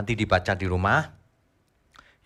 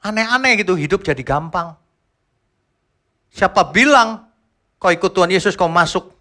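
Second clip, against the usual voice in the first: preaching loudly; 8 semitones higher, 6 dB louder than usual. Real, not acted. Preacher rebukes easy faith.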